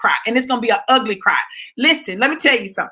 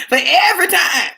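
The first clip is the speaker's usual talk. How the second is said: laughing; 4 semitones higher than usual. Real, not acted. Laughing through list of wrongs.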